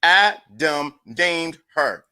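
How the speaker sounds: very slow, each word apart; slowly repeated so the chat can write it. Shown as a demonstration. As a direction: lay it down word by word. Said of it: "let's say it for slowly".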